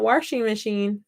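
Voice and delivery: "washing" with an r, warshing; warshing pronunciation. Shown as a demonstration. Crafter rejects one version, "washing" as warshing. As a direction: put an r into "washing". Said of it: "not washing machine".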